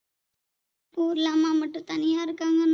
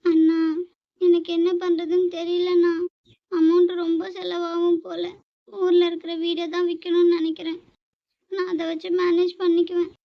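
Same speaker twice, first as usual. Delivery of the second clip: fake crying. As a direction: overplay the tears to get money. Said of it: "நடிப்பு கொஞ்சம் ஓவரா போட்டோமோ".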